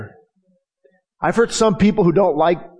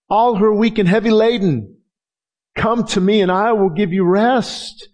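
crying out with passion; 4 semitones higher than usual. Retold or imitated. Jesus calling out to the weary with passion. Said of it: "some inflection and passion in that".

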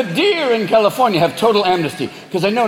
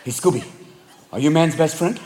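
scheming cat; 4 semitones lower, 4 dB quieter than usual. Acted. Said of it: "the cat's like".

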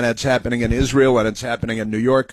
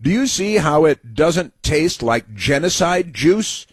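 sarcastic reading; 5 semitones higher, slower than usual. Retold or imitated.

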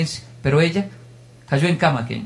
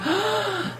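gasp of dismay; 6 dB quieter than usual. Retold or imitated. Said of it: "y dije".

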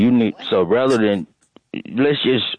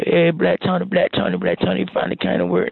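high, thrilled greeting, pitch much higher; excited coworkers; 9 semitones higher than usual. Retold or imitated. Coworkers greeting Black Tony at the office, high and thrilled. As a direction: cheer him like long-lost family. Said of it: "everybody gonna be dapping you up and be".

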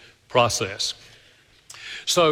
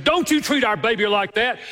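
retold angry scolding; 8 semitones higher than usual. Mother scolding husband for shaking baby.

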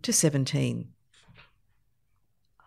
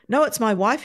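breathless; 5 semitones higher, 3 dB louder than usual. Acted. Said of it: "he said breathlessly".

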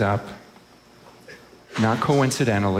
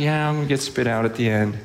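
offhand, unbothered mock reply; casual indifference; faster than usual. Imitating someone facing being spit out, casual. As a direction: shrug it off casually. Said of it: "you're just casually".

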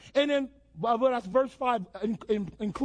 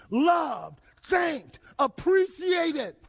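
rising preached shout; 3 semitones higher, much slower than usual. Acted. Preacher building a scripture list.

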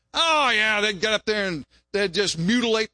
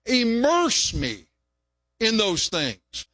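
prayer plea; 4 semitones higher, much slower than usual. Acted. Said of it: "I always put it this way".

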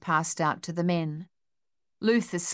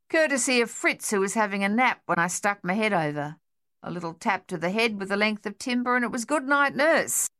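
grinning; 4 semitones higher than usual. Acted. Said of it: "Luther grinned".

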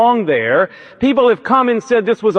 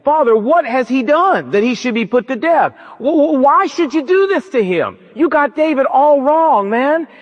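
higher, stammering plea to his father; pleading son; 5 semitones higher than usual. Acted. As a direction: beg your father to spare your friend. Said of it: "said to his dad".

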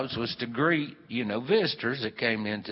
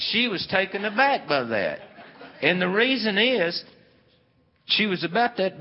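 laughing through the words, a bit louder; 9 semitones higher, 6 dB louder than usual. Real, not acted. Narrator laughing to the audience at the story's joke. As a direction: chuckle while you say it. Laughing while telling the punchline.

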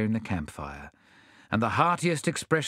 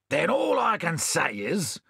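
a touch of outrage, slightly raised; hammed-up indignation, lightly voiced; mildly enraged; 3 semitones higher than usual. Bill complaining to his friends, mildly enraged. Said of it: "cried Bill, enraged".

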